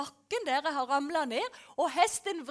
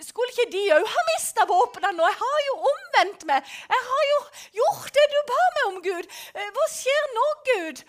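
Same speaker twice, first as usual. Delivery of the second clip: higher, louder, urgent questioning; anxious protest; 7 semitones higher, 9 dB louder than usual. Retold or imitated. Rider protesting to God that the guns remain, urgent. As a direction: demand answers, worried.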